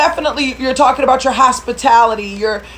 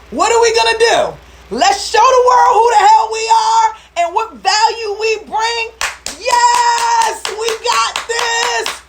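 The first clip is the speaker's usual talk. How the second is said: so fired up; 8 semitones higher than usual. Real, not acted. Coach rallies staffingpreneurs to call clients, high fired-up shout. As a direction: preach it like a rally, voice soaring. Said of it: "I am so fired up".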